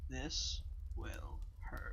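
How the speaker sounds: ominous warning. Acted. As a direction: drag it out, menacing. Guardian's ominous parting words.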